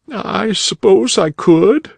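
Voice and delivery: put-on high young boy's voice, a little slow; tearful boy. A narrator's reading. Crying boy answering the rabbit, high young voice.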